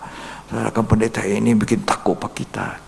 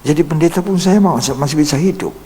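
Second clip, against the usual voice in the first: emphatic; 8 semitones higher, 6 dB louder than usual. Real, not acted. Preacher rising in emphasis.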